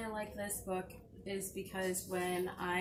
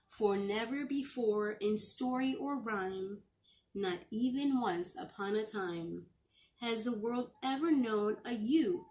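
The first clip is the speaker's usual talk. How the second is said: gentle storybook read-aloud; reading to children. Acted. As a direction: read it like a bedtime story to the class. Teacher reading a picture book aloud.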